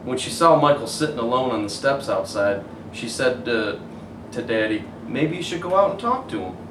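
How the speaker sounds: put-on gentle storybook narration for kids; story reading. A narrator's reading. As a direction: read it like bedtime story. Reads picture book aloud.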